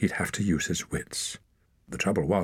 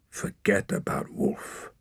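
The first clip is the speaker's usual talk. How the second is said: slow whispered self-command; grim whisper; 4 dB quieter, slower than usual. A narrator's reading. Torak whispers to himself to forget Wolf, slow. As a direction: whisper it hard to yourself.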